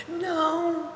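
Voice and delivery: put-on high, small child's no; a child's weepy answer; tearful little boy. Boy answering his carer through tears, high child voice.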